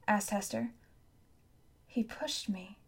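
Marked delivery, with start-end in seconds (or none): 1.9-2.8 hushed, half-voiced realization; amazed murmur. A narrator's reading. Boy realizing he was betrayed, amazed murmur. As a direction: murmur it in stunned disbelief. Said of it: "murmured Tom, amazed".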